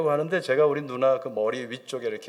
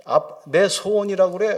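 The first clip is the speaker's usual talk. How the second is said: lightly acted weeping appeal; tearful pleading; 5 semitones higher than usual. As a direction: plead through mock tears. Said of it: "우시는 거예요".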